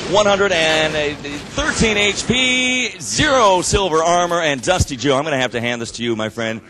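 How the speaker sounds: breathless after fast calling; gasping between words; out of breath. Real, not acted. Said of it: "I am out of breath".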